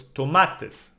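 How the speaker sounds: "tomates" stressed on MA; second-last syllable stress. Shown as a demonstration. Teacher applying the nose rule, "tomates" stressed on MA. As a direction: lean on the middle syllable of "tomates". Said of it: "emphasize the second last syllable".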